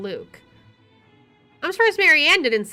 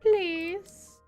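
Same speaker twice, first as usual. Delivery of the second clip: mimicked plea; 8 semitones higher than usual. Player mimics character's plea.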